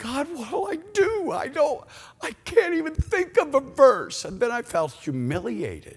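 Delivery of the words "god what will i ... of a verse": acted cry, much higher, louder, slower. Recounting a moment his mind went blank, retelling crying out to God. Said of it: "And I cried to God".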